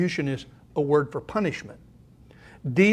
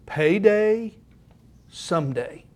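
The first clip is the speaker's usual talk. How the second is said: whispered title; slower than usual. Shown as a demonstration. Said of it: "dramatic whispered sermon title".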